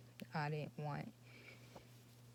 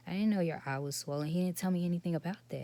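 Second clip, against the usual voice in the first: louder and fast, defending herself; retold heated protest; 4 semitones higher, 6 dB louder, much faster than usual. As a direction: rush it out, protesting and a bit raised. Retold argument with upset son.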